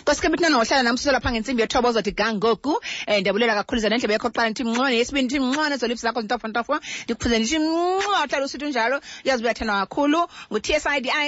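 upbeat fast DJ patter; radio host sign-off. Acted. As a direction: rattle off the outro like a DJ.

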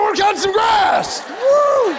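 high, hollered cheer; high-pitched rowdy yell; excited shout. Acted. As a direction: whoop it up at full voice. Acted excited whoop at end of bit.

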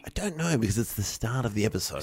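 soft hushed voice; whispering. Pretend. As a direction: whisper it low. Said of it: "Why are we whispering?".

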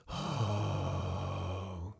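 soft, breathed ghostly "oh"; long hushed "oh"; sung "oh". A narrator's reading. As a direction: sigh it out softly like distant voices. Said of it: "sang the voices".

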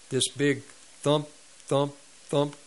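THUMP repeated as separate even beats; "thump," spaced out with short pauses; imitated heavy footsteps. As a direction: punch each "thump" like a heavy step. Imitating footsteps returning upstairs.

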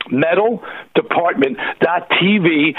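metal department dot T V, said slowly, each word distinct; slow and clear. Shown as a demonstration. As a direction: spell the web address out slowly for listeners.

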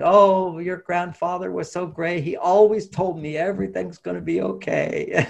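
a fond hint of an old lady recalling her husband; imitating grandmother. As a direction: grandmother remembering her husband, lightly voiced. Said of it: "Bonnie's grandmother always saying".

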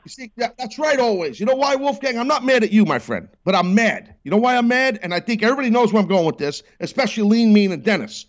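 pitched high, mock outrage building; worked-up rant. Radio host playfully ranting at the caller, mock outrage. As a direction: wind up a hammed-up rant at the caller.

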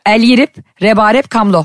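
phrase read in reverse, like a spell; backwards speech. Shown as a demonstration. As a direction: chant it backwards like magic. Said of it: "karşıma bir büyücü gibi konuşuyor".

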